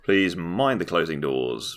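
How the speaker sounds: slow tube announcer voice; lightly voiced station announcer; train station announcement.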